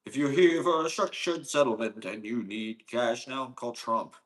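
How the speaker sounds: lightly voiced cash-now ad announcer; mock TV ad. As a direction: read it like a cheesy lawyer commercial. Parodies a TV cash ad.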